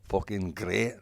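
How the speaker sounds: Sheffield attempt slipping into Scottish; accidental Scottish accent. Shown as a demonstration. Guest trying local slang and slipping into a Scottish accent. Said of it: "I went Scottish there".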